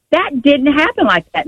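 high, insistent retold correction. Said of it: "Mother, don't yell at my daughter".

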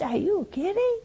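hoch und ungläubig: Are you kidding?; incredulous. Acted. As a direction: fassungslos nachfragen. Incredulous retort, pitch leap.

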